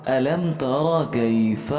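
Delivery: drawn-out tarteel chant, each word held long; slow Quran recitation. Shown as a demonstration. Teacher reciting the verse slowly for students.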